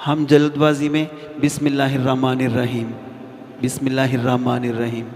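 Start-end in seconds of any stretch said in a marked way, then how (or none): 1.4-2.9 rushed. Shown as a demonstration. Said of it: "حروف کو کھا جاتے ہیں اندر سے". 3.6-5.1 quick recitation with letters swallowed; hasty swallowed letters. Shown as a demonstration. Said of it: "حروف کو کھا جاتے ہیں اندر سے".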